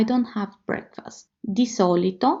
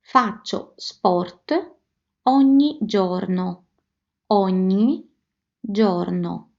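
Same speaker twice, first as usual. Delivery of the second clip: Faccio sport ogni giorno spoken slow and distinct; slow teaching model; slower than usual. Shown as a demonstration. Teacher modelling Faccio sport ogni giorno slowly. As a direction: spell out each word slowly. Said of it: "One example".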